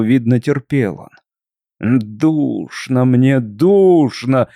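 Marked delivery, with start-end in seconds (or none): 1.8-4.5 slow, drawn-out dead man's groan; inhuman moan. Acted. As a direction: moan it like a suffocating corpse. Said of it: "простонал он диким, нечеловеческим голосом".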